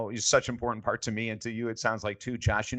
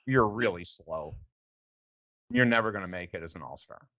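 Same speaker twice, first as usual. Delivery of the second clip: Moses' blunt putdown; 3 semitones lower than usual. Retold or imitated. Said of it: "and he goes".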